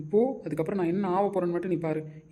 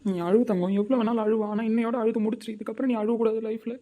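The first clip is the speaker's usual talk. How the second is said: raised anguished voice; 2 semitones higher, 3 dB louder than usual. Acted. Husband raising voice in grief.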